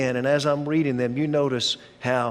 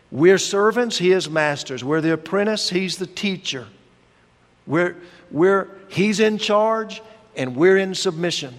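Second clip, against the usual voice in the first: emphatic preaching; 3 semitones higher than usual. Acted. Preacher hammering the contrast.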